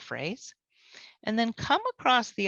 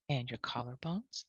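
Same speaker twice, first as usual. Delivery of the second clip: whisper; 5 semitones lower, 8 dB quieter than usual. Real, not acted. Quiet second tapping round.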